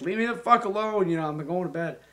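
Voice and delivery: high, loud irritated outburst; grumpy woken-up yell, replayed; retold snap. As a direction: snap at whoever turned the light on. Retelling being woken, snapping.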